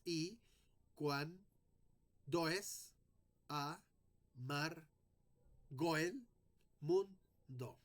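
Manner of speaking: slow, syllable by syllable with pauses, joining goel; scanning the verse. Shown as a demonstration. Teacher scanning the verse aloud, slow with pauses. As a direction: beat out the octosyllable. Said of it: "va a ser una sola sílaba goel".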